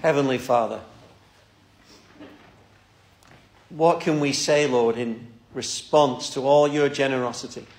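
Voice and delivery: earnest, unhurried prayer voice; closing prayer. Acted. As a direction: pray for the congregation, humbly. Pastor leads closing prayer.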